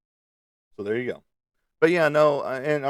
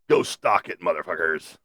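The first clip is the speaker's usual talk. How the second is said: mock notification voice; 2 semitones higher than usual. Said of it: "it informs me".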